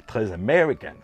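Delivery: mock American accent on "américaine"; Jean Reno. Showing Madame Éponge the photo, mock American accent. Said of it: "comme dirait Jean Reno".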